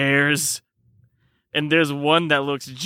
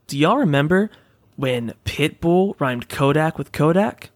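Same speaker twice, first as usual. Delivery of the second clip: hyped energy drink pitch; ad read; 2 semitones lower than usual. Acted. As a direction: sell it like a cheesy ad.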